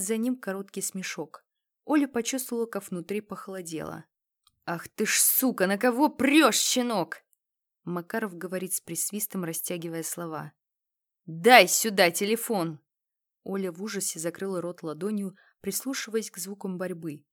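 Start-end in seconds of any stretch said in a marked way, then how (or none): 4.6-7.2 put-on loud, higher snarl at a cocky kid; furious thug shouting; furious yell. Thug attacks in dark. 11.3-12.8 loud, slow barked order; loud demand. Acted. Thug demands phone in fight.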